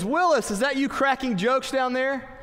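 a hint of a coach catching Willis joking; coach impression. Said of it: "my best Michael Knapp impression".

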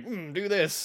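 high-pitched mock dim-witted orc; lightly voiced foolish orc giving advice; idiot orc ancestor. Idiot orc ancestor answering the living, mock dim-witted. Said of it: "this idiot orc is going".

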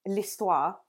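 l'histoire said the French way, lee-stwah; l'histoire with a mock French accent; French word. Shown as a demonstration. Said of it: "I'm speaking French".

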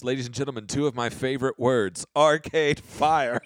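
stage announcer introducing a band, drawing out the final name; imitated host's band introduction; Benedict Cumberbatch introduction. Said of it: "I just remember his introduction".

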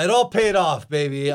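hyped wrestler cutting a promo; wrestling promo. Acted. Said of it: "You wanna cut a promo?".

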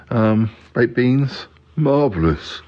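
slow, savouring marvellous; Yeti Uncle John relishing. Pretend. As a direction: roll out the words with relish.

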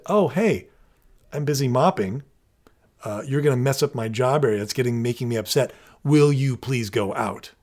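calm, measured polite request; calm request instead. Shown as a demonstration. Six-year-old politely asking brother to leave, calm. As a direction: ask nicely, without any yelling. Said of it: "he should have said".

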